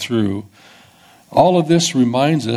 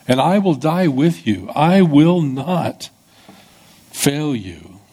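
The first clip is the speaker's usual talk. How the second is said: raised, insistent pledge; earnest Peter; 4 semitones higher than usual. Retold or imitated. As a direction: swear it, slowing on "I will not". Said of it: "Peter was speaking the truth that he believed".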